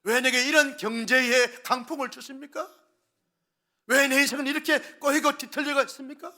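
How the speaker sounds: building into a loud, high complaint; complaining to God. Retold or imitated. Pastor voicing a believer who complains to God, rising loud protest. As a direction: grow from grumble to loud protest. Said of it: "하나님께 원망하고 불평합니다".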